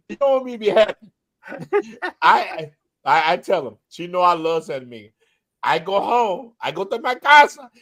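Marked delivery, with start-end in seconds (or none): 0.1-1.1 put-on quick, light Dominican accent; fast mock Dominican-accented English. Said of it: "I start talking like that". 5.6-7.7 put-on broken English in a light Dominican accent; slightly hammed Dominican accent. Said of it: "I start talking like them".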